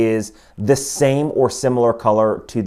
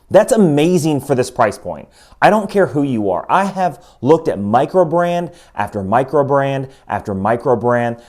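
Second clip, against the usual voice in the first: higher-pitched, excited reviewer delivery; impressed, emphatic; 3 semitones higher than usual. Real, not acted. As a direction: tell viewers how amazed you are, punching the key words. Amazed by quick-change date feature.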